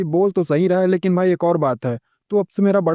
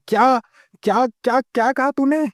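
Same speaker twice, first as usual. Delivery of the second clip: higher, stammered what-what; shocked; 6 semitones higher than usual. Acted. Butler hears the MC has the lost recipe, stunned and high. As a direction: jump up in disbelief. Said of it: "मुंह में वापस से गोटे आ जाते हैं".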